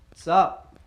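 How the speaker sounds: imitating an actor in Boston accent. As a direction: say Mocky Mock with a broad Boston a. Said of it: "talking in a Boston accent".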